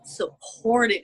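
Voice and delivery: slow, emotional, choked up. Real, not acted. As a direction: hold back the tears, choked up. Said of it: "I'm choking up right now".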